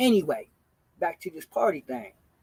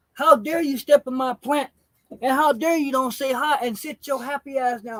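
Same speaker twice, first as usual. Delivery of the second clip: retold mom scolding; 5 semitones higher than usual. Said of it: "she said".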